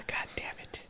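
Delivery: real whispered curse under the breath; barely audible fed-up whisper; hushed curse to himself, worn out by the tangent; exasperated whisper. Real, not acted.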